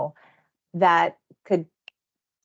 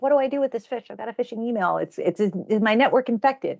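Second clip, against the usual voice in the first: higher-pitched, mock-fretful questioning; a touch of mock worry, pitched up; mildly worried; 4 semitones higher than usual. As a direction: act out a slightly flustered phishing victim. Acts out worried phishing victim.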